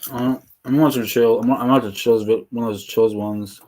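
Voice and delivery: talking while chewing popcorn; words around a mouthful; mouth full. Real, not acted. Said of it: "what are you munching on".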